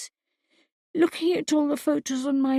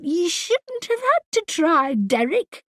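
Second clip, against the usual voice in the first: raised, higher voice; shouting; 8 semitones higher, slower than usual. A narrator's reading. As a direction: shout it back at him. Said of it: "Kara shouted".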